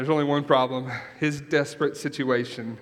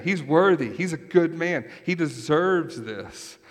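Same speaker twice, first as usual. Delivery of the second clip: insistent elders; 3 semitones higher than usual. Retold or imitated. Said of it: "They're saying".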